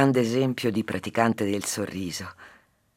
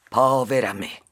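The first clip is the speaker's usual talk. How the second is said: complaining housewife; 3 semitones higher, 6 dB louder than usual. Acted. Housewife laments in fable.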